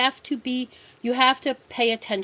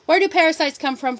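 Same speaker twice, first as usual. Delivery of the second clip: calling out to viewers; 5 semitones higher, 4 dB louder than usual. Real, not acted. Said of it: "Come on, audience participation".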